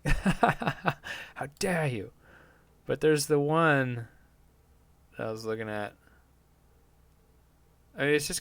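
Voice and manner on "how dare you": stretched out very slowly, slightly higher; slow mock quote. Podcaster mocking the viral quote, drawn out very slowly. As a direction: drag each word out like a meme.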